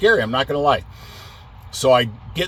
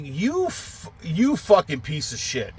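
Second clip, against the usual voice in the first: stammered start into an angry insult; retold insult, starting high and dropping; getting angry; 4 semitones higher, 3 dB quieter than usual. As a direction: re-enact exasperated cursing. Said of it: "Now I'm fucking getting angry".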